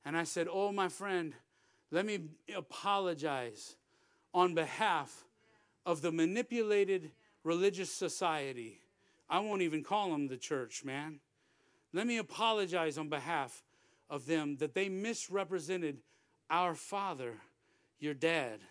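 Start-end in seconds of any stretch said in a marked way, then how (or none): 0.5-8.8 low, measured, tender apology; earnest apology. Retold or imitated. Preacher apologizing to a hurt coworker, earnest and tender. Retold apology to hurting father. 11.9-18.6 low, measured, tender apology; earnest apology. Retold or imitated. Preacher apologizing to a hurt coworker, earnest and tender. Retold apology to hurting father.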